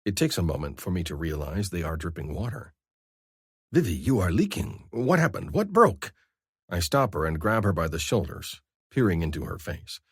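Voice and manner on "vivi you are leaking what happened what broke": rising alarm, last question pitched high; startled and confused, voice jumping up. A narrator's reading. Scar alarmed at his mate's tears, rising confusion.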